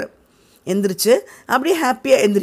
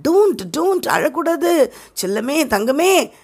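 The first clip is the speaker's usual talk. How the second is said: put-on soothing boy; 6 semitones higher, slower than usual. Sid soothing Tom.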